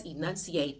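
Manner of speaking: "enunciate" with a crisp, sounded final T; hard T. Shown as a demonstration. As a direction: say the T at the end of "enunciate" hard, not silent. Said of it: "did you hear that T at the end of enunciate?".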